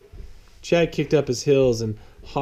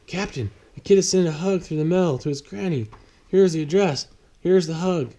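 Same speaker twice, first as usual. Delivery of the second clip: reluctant James; 6 semitones higher than usual. Acted. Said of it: "James said with a grimace".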